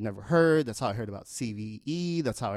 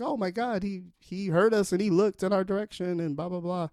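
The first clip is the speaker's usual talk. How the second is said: much higher, giddy fan gush; a fan who feels seen by the rapper; excited fans; 9 semitones higher than usual. Retold or imitated. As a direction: squeal it like a starstruck fan. Fans' excited inner reaction.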